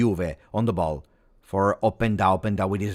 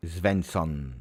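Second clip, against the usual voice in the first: normal talking voice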